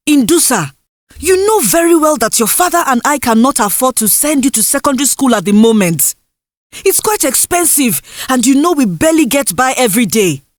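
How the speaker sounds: lightly voiced mother, firm and weary; a hint of a tired mother saying no. Mother refuses Indusa's request.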